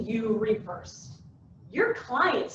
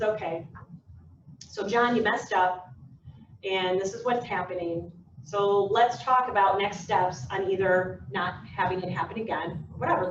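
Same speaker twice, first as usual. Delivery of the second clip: lower, non-judgmental manager; calm coaching; 4 semitones lower than usual. Acted. Manager coaching John after a mistake, calm. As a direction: talk it through evenly, without blame. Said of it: "They're coaching them through".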